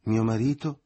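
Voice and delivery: put-on tipsy girl cries out at the idea; incredulous cry. A narrator's reading. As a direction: shriek the question in disbelief. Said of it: "ella gridò".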